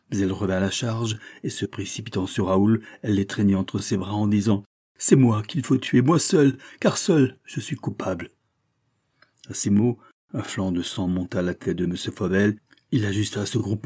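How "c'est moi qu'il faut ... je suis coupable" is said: desperate. Acted. Mother shields son, offers herself.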